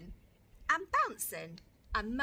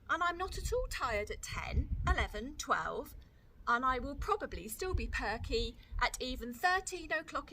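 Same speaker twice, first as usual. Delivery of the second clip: high, cheeky little sister; a small girl insisting, higher; Lola's little-girl voice; 4 semitones higher than usual. Acted. Lola voiced by reader.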